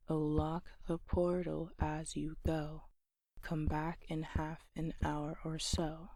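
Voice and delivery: metronomic verse, every second syllable stressed, as in "oh LEAD me TO"; unstressed-stressed beat. Shown as a demonstration. Teacher identifying stressed syllables in the poem, unstressed-stressed beat. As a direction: scan it evenly, weak then strong: "and BAR the WINdow". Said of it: "it is a pattern of unstressed, stressed".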